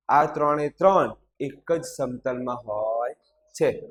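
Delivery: measured classroom dictation; slow dictation. Acted. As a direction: read it out slowly for pupils writing it down. Dictates the answer with punctuation.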